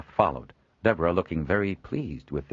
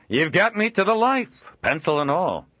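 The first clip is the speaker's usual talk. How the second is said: raised, louder hearty merchant voice; a jovial trader chuckling at his own likeness; Joel, amused trader; 12 semitones higher, 6 dB louder than usual. Acted. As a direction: genial old trader voice, pitched up.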